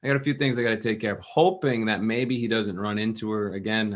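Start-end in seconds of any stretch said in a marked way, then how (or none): 0.0-1.2 fast evasive excuses; stalling nervously to avoid her. Retold or imitated. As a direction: rush through to dodge the question. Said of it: "So he tried to stall".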